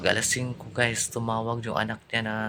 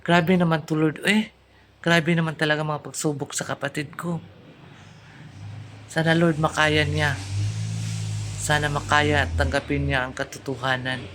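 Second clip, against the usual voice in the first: anguished prayer; 4 semitones higher than usual. Retold or imitated. Sister prays for her brother, anguished. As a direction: cry out to the Lord. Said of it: "Sabi ko, "Lord".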